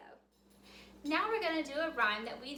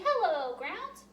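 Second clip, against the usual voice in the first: greeting to the ground; 3 semitones higher, 3 dB louder, slower than usual. Shown as a demonstration.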